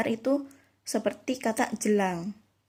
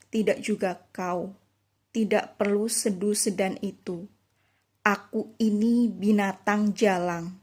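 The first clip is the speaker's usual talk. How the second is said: poem reading. Shown as a demonstration. Teacher reciting Chairil Anwar's Aku to show stressed words, measured poem reading. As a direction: recite the lines deliberately, drawing out the endings. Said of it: "pada penggalan puisi Aku".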